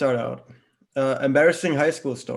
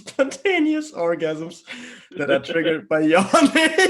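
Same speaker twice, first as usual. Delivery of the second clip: laughing; 3 semitones higher, 4 dB louder than usual. Real, not acted. Reader cracking up at the story.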